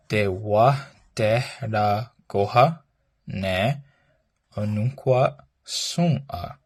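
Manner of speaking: slow, careful model of the phrase. Shown as a demonstration. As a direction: say it slowly for learners to copy. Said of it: "so our phrase today is".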